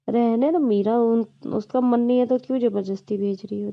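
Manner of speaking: husband loudly defending his brother. Retold or imitated. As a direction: snap back at her loudly and quickly. Aditya defends husband against Meera.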